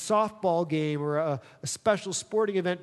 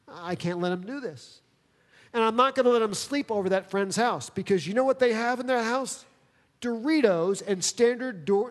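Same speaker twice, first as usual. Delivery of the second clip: overprotective mom; 5 semitones higher than usual. Retold or imitated. Voicing overprotective mother, rising.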